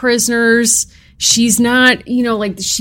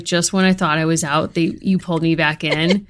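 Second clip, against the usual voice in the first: quoting The Godfather; 6 semitones lower, 5 dB quieter than usual. Retold or imitated. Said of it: "that line in The Godfather".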